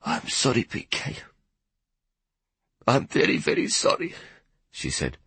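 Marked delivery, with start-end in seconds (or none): 0.0-4.2 hushed, almost whispered apology; near whisper. Acted. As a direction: breathe the apology out barely voiced. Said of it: "her voice almost a whisper".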